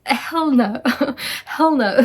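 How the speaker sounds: loud laughing refusal, hell no. Retold or imitated. Reacting to the psychologist quote, laughing hell no. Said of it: "I was like".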